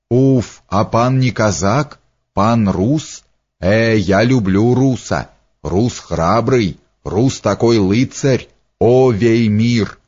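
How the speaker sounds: slow, lightly voiced flatterer; fawning Leizer. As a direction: flatter in drawn-out, lightly exclamatory phrases.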